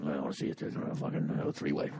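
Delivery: low, soft, half-whispered creep; creepy mumble. Pretend. Creep on dating site mumbling low and soft. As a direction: breathe it out like a sleazy whisper. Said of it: "you'd just be mumbling".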